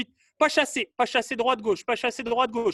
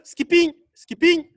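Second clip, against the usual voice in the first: loud, high, slow drawn-out call; called-out command; 6 semitones higher, 8 dB louder, slower than usual. Real, not acted. Coach restarts the running drill, long loud call. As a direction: stretch the order out across the room. Coach calling exercise orders.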